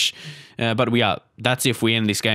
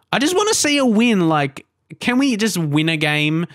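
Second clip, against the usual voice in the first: pleading; 5 semitones higher than usual. Real, not acted. Frustrated, wanting a win.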